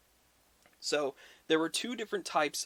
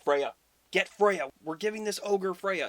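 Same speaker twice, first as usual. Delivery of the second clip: Thor calling out; 6 semitones higher, 6 dB louder than usual. Retold or imitated. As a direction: call her name out loud. Thor orders Freya handed over.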